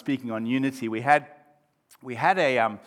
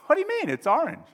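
high-pitched disbelief, easing down; incredulous objection; 13 semitones higher, faster than usual. Acted. Friend contradicting his mate, mild incredulity. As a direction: object as if it's obvious. Acted friend disputing the colour.

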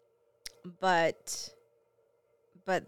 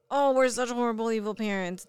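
mock self-blame; 3 semitones higher, 5 dB louder than usual. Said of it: "I'm not like".

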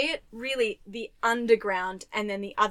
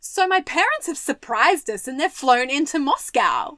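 fake casual lie; 4 semitones higher, 4 dB louder than usual. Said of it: "the worst lie ever".

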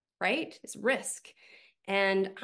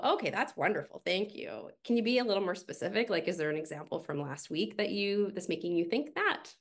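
gentle coaching; 2 semitones higher than usual. Retold or imitated. Coach gently pressing a vague team member, lightly gentle. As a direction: coax them kindly toward more detail. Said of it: "gently go".

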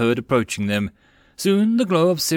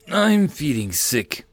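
whimpering; 3 semitones higher, slower than usual. A narrator's reading. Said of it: "Itsu whimpered".

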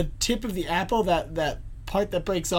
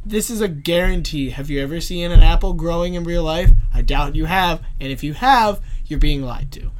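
conspiracy theorist; 6 dB louder than usual. Pretend. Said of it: "And that's Jack's Conspiracy Corner".

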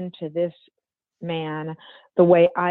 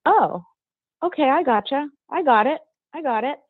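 higher, clipped "I gotcha, I got it"; grudging concession; 7 semitones higher than usual. Retold or imitated. Boss giving in after an argument, high and grudging. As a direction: mimic the boss conceding the point. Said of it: "Just in, in that tone of voice".

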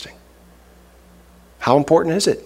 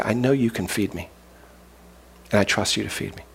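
soft, slightly low trusting prayer; quiet prayer; 3 semitones lower, 8 dB quieter than usual. Acted. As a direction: speak it softly and sincerely to God. Voices a trusting prayer to God.

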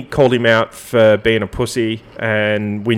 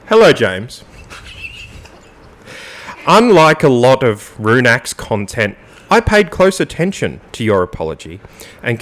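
emphatic, mock-formal statement read; sexy radio voice. Host reads co-host's mock apology to James, radio voice. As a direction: lift the start of each phrase, then settle down. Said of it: "get it in my sexy radio voice".

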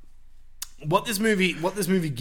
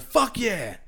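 retold excited shout; 7 semitones higher than usual. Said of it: "I just screamed out and shouted".

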